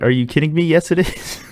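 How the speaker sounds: retold disbelief, rising high at the end; mock-indignant, pitch climbing as you object; incredulous protest. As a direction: replay your baffled objection.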